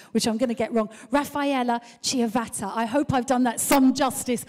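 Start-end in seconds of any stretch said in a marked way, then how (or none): 1.1-2.7 put-on a light go at a Brazilian accent; attempted Brazilian accent. Host introducing the next speaker from Brazil, attempted Brazilian accent. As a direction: say the name with a hint of a Brazilian accent. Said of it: "say this in her beautiful accent".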